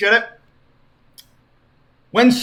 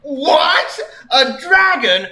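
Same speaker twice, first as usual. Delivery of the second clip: mock surprise; 9 semitones higher, 4 dB louder, much slower than usual. Sonic surprised.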